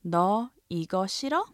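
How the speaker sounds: 너 이거 싫어 with 싫어 rising at the end; 끝을 올려서; rising question. Shown as a demonstration. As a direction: ask 너 이거 싫어 with a lift. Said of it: "raise the intonation at the end".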